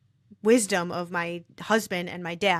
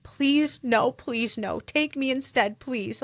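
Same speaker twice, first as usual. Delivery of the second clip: pleading, higher-pitched mock yell; retold yelling; 5 semitones higher, slower than usual. Wife retelling her husband's pleas to the doctor, mild retold yell. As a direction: retell a desperate yelled plea without fully yelling. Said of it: "He just started yelling".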